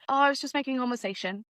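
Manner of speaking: mildly snotty imagined comeback; a bit arsey. Retold or imitated. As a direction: imitate a slightly huffy excuse. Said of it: "a little bit of an arsey".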